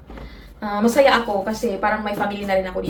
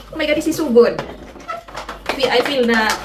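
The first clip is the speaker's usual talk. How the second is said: excited; 3 semitones higher, 4 dB louder than usual. Real, not acted. Excited about the microphone.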